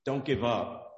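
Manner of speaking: mildly firm, earnest urging; lightly firm encouragement; gently firm. Acted. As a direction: insist kindly, with a little extra push. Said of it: "be a little bit firm".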